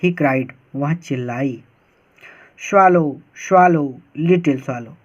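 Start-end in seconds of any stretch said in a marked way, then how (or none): 2.7-4.9 prince calling the swallow. Acted. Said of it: "said the prince".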